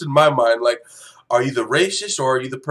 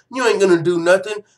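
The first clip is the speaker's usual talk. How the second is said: lightly mimicked country accent, a bit higher; 4 semitones higher, 4 dB louder than usual. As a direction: imitate him with a touch of country accent. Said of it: "give him a country accent".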